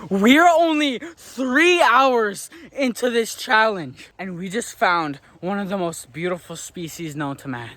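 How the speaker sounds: like a nature-show presenter spotting wildlife; nature documentary. Pretend. Nature host spots an animal.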